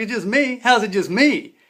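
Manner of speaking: high, loud incredulous squawk; shocked disbelief. Retold or imitated. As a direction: voice jumps up in disbelief. Shocked he goes in alone.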